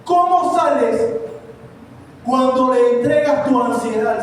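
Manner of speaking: projected, insistent sermon delivery; preaching. Acted. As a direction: preach it out to the congregation. (prédica enérgica)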